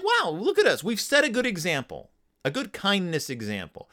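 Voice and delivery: high, gushing proud-parent voice; mock thrilled parents. Proud bear parents boasting about their example, in a high mock-thrilled voice. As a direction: ham up the parents praising themselves.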